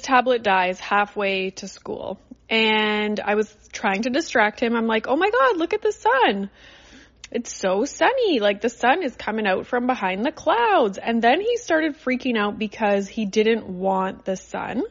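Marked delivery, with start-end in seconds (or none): 5.1-11.0 cheery distraction. Retold or imitated. Mom cheerily distracting son again.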